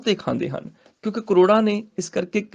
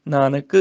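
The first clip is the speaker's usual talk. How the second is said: "Nanak" set apart by a pause; pause after Nanak; 5 semitones lower than usual. Shown as a demonstration. Teacher marks where to halt, pause after "Nanak". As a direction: stop briefly after "Nanak". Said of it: "Nanak ਤੇ ਰੁਕਣਾ ਹੈ".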